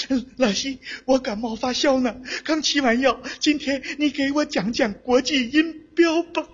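lightly voiced feverish pupil, dragging the last words; sick child. Feverish child asks the tutor for a phonetics lesson, sick voice. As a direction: weakly ask the teacher for a lesson. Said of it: "这孩子从床上爬起来".

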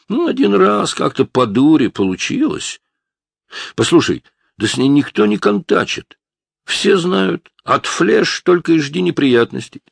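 put-on a jittery young punk talking fast to cover himself; defensive teen. A narrator's reading.

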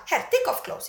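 put-on high, loud order in Chinese-accented English. Acupuncturist ordering patient to undress, imitated Chinese accent. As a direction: give a curt command with a Chinese accent. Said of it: "kinesisk, eh, brytning".

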